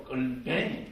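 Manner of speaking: slow Gyeongsang dialect pronunciation. Shown as a demonstration. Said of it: "경상도 말로". (경상도 사투리로 느릿하게)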